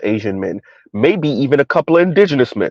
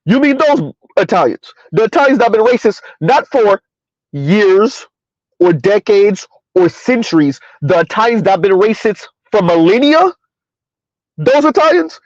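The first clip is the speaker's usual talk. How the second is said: pitched way up in mock disbelief, asking again and again; 6 semitones higher than usual. Real, not acted. To black women about Italian men, in raised mock disbelief. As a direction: act stunned that anyone would believe it.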